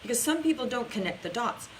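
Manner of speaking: usual speaking voice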